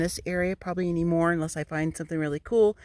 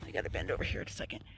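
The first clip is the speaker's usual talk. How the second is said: muttered aside; 11 semitones lower, 11 dB quieter, much faster than usual. Real, not acted.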